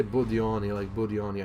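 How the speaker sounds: light mock Russian accent on Budioni. Shown as a demonstration. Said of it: "A Russian accent".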